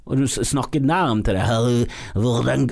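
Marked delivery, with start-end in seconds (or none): 1.5-2.7 slow, dragged-out burred Rs; mocking, slow throat-scraping voice; throaty smoker impression. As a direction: mimic a smoker scraping out each word. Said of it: "han snakket med sånn skare her".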